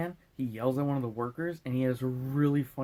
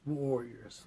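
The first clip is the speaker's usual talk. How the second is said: whisper; 4 dB quieter than usual. Pretend. Spooky whispered word.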